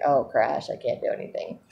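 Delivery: drops low and soft, mock drained; mock sugar crash. Describing the crash after sugar, low and deflated. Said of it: "it's like".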